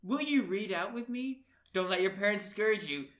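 lightly hammed-up romantic read; love letter reading. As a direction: declaim a mock love letter. Reads the silly love letter aloud.

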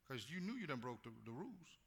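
usual speaking voice

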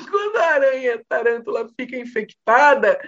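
words breaking up with laughter; laughing. Real, not acted. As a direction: try to talk through the giggles. Laughing mid-story.

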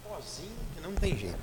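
talking away from mic while sneezing; muffled, sneezing into the side. Real, not acted. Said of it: "Vou espirrar".

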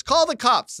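high, loud retold command; retold angry order. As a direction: throw it out as a heated dare.

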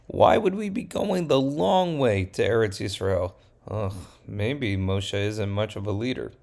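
mock whiny complaining; a touch of doubting grumble; grumbling. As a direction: people griping about Moshe. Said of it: "the people are starting to grumble".

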